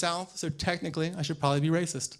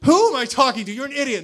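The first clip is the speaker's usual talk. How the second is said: higher, louder, scolding yourself; self-scolding; 6 semitones higher, 6 dB louder than usual. Retold or imitated. Comic catching himself mocking a homeless man, angry self-scolding. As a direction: snap at yourself in disbelief. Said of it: "And I was like".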